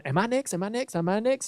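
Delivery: anxious urgent asking. Retold or imitated. Nervous host asking his producer on air, anxious and hushed. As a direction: softly pester someone for an answer.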